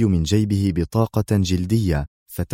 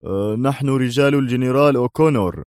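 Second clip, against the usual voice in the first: resentful; 4 semitones higher than usual. A narrator's reading. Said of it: "أجابه دوايت في حنق".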